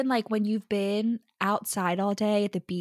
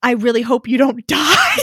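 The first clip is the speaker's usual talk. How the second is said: laughing mock farewell; 3 semitones higher, 10 dB louder than usual. Mock Jacob parting shot.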